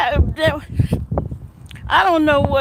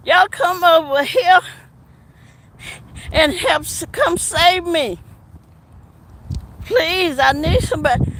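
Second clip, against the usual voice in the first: imitating Dubby; 3 semitones higher than usual. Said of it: "she sound like she just got off".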